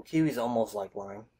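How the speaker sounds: glass at the lips; words into a glass; talking while sipping drink. Real, not acted. Seen 1: Left man lifts glass to lips mid-sentence; likely speaker, not certain.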